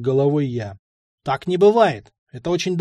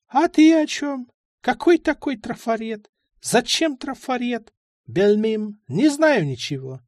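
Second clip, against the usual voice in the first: put-on higher old man's voice, feigned innocence; old man playing dumb; 8 semitones higher than usual. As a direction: dodge the question like a sly old man.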